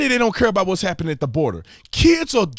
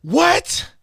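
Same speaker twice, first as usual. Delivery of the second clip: stunned reaction; 9 semitones higher than usual. Real, not acted. Shocked reaction to clip.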